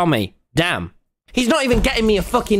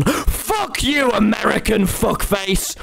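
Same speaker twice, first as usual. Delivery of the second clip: mock insult; slower than usual. Playfully yelling at a game player, mock outrage. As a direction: throw a playful jeering shout.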